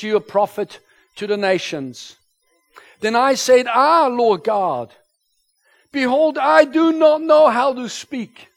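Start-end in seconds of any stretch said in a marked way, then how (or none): none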